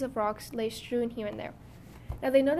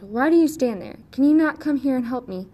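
loud, higher, angry cry; irritable dwarf shouting at the girls; 3 semitones higher, 10 dB louder than usual. Acted. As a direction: glare and cry out for help. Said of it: "glared at the girls with his fiery red eyes and cried".

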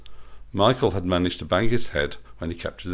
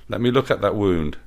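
cooing. Acted. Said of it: "she cooed".

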